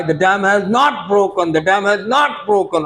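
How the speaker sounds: slow American-accented announcement, "not" said like "now". Shown as a demonstration. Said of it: "अब ये American accent है". (धीमे American accent में ऐलान, "not" को "now" जैसा)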